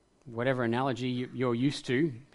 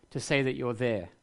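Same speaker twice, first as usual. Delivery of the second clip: pleading for loud proof; 6 semitones higher, 4 dB louder than usual. Pretend. Preacher voicing his question to God.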